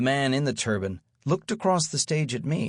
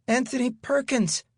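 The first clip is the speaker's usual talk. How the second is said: put-on much higher, thin reedy boy; squeaky boy's voice, far higher; 13 semitones higher than usual. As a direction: pipe it up like a reedy little kid. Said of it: "in a high, reedy voice".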